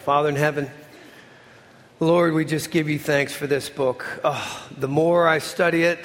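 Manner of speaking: earnest, prayerful pastor's voice; closing prayer. Acted. Pastor praying over his church family, earnest and humble. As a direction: pray over the congregation humbly. Preacher prays to close.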